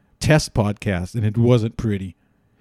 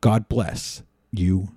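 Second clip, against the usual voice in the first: lower, softer, solemn address; mock presidential sign-off; 4 semitones lower, 4 dB quieter than usual. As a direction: wind down into a hushed benediction.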